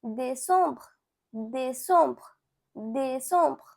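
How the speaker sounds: décembre as "day-sombr", soft br ending; French pronunciation. Shown as a demonstration. Teacher showing learners December in French, careful French décembre. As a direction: repeat décembre deliberately, nasal second vowel. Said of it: "You can say".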